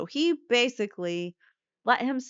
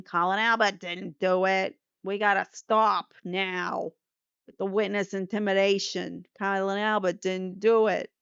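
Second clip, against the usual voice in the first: a hammed-up, bad Boston accent; lightly put-on Boston accent, mocking the DA; terrible Boston accent. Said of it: "that's a terrible Boston accent".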